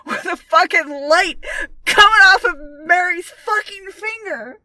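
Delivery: high, loud, incredulous complaint; exasperated rant. Real, not acted. Podcaster ranting about an obvious movie clue, exasperated and loud. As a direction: hit the swear words in comic outrage. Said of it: "I was so pissed with that".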